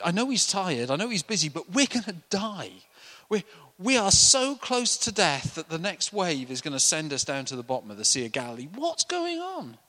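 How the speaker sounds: rising alarm at the sleeping master; panicked disciples. Retold or imitated. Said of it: "running through their heads".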